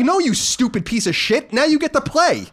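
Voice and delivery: high, loud jeering voice; mock the whining backup with a sneer; mock scolding. Backup running back scolded, high loud mock jeer. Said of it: "It's like".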